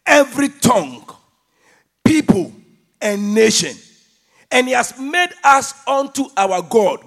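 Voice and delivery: loud, declaimed verse in measured phrases; emphatic scripture reading. Acted. Preacher reading Revelation to the congregation, emphatic and loud. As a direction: proclaim each phrase with weight.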